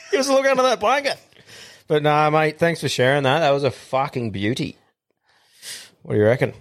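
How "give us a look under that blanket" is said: high, fast put-on voice; cheeky leering tone, much higher; hammed-up creep voice; leering mock voice. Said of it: "continues flirty voice".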